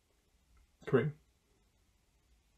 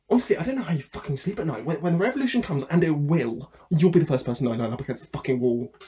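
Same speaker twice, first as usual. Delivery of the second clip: fast, louder angry tirade; furious rant; 5 dB louder than usual. Acted. Sacked worker threatening his boss with revolution, loud fury. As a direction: let the rage run away with you. Ranting at boss who fired him.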